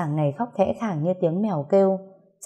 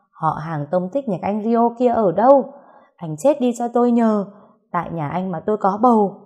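angry shout in labor pain, higher and louder; shouting angrily; 3 semitones higher, 4 dB louder than usual. Acted. Woman in labor curses the absent Rio, loud angry shout. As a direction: yell the curses out at full voice. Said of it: "An hét thật to".

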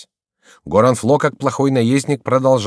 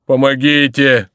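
slow, loud wail; drawn-out, higher distressed shout; cry for help; 4 semitones higher, 6 dB louder, slower than usual. A narrator's reading. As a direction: wail out for rescue. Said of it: "кричал Горанфло".

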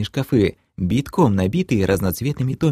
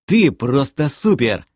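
shaky praise; 5 semitones higher, slower than usual. Acted. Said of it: "дрожащим голосом похвалил я".

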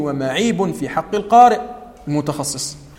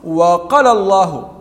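وقال stretched far too long, slowly; wrong over-long madd; 4 dB louder, much slower than usual. Shown as a demonstration. Teacher shows students the wrong elongation, slowly. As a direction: overdraw the vowel of وقال. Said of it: "ما تقول".

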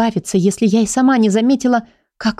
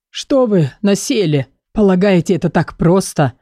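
hoarse voice. Acted. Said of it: "просипел Герхард".

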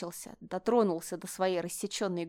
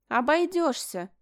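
snapped; 7 semitones higher, 3 dB louder, slower than usual. A narrator's reading. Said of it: "огрызнулась Мишель".

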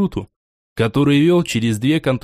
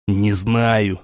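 low words squeezed through gritted teeth; 5 semitones lower than usual. Acted. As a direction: force it out through clenched teeth. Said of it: "сквозь зубы процедил Антон".

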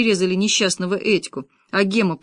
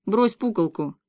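lazy order. A narrator's reading. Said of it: "лениво подошёл к мужчине и велел".

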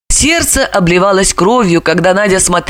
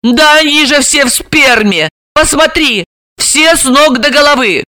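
shout; 7 semitones higher, 3 dB louder than usual. A narrator's reading. Сестра кричит.

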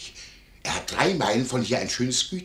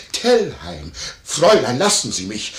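retold outcry; 7 dB louder than usual. Landlord acts out the quarrel.

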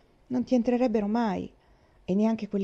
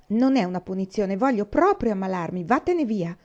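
angry; 4 dB louder than usual. Acted. Faith angry refusal.

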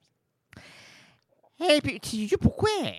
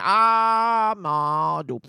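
mock gasp; 3 semitones higher, 5 dB louder, much slower than usual. Mock exclamation.

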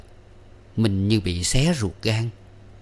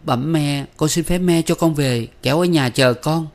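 higher, grumbling plea to mother-in-law; annoyed pleading; 7 semitones higher, 4 dB louder than usual. A narrator's reading. Daughter-in-law begs mother-in-law to go home, higher and fretful. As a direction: whine it up, irritated. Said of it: "Mình bực mình nhăn nhó".

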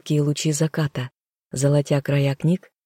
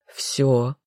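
commanding; 2 semitones lower than usual. A narrator's reading. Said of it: "Его слова прозвучали как приказ".

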